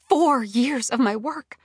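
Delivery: slow-building indignation; indignant dismay. A narrator's reading. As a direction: spell out the loss, appalled. Outrage at years of work lost.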